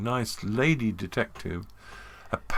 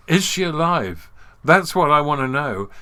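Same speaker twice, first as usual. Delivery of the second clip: eager question; 6 semitones higher, 10 dB louder than usual. Retold or imitated. Man eagerly asks about Tosh.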